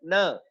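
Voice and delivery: "न" short, as the weak syllable; unstressed syllable. Shown as a demonstration. Teacher showing the weaker syllable, "न" short and unstressed. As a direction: let "न" drop away briefly after the stress. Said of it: "volume कम किया है".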